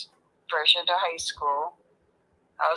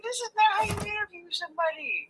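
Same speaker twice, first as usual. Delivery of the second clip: laughing scold; 13 semitones higher, 4 dB louder than usual. Real, not acted. Mock scolding while laughing.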